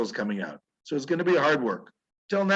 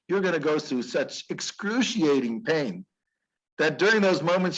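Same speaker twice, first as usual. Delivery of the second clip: God speaking; 3 semitones higher than usual. Retold or imitated.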